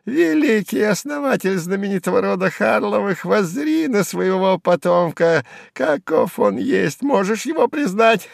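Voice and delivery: mock him in a high squeal; high sneering sing-song; squeaky mocking jester. A narrator's reading. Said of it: "продолжал пищать Сувенир".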